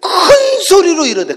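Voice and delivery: high, loud and drawn out; loud scripture quote. Shown as a demonstration. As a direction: stretch the first word hugely for emphasis. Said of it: "성경에 꼭 이렇게 써요".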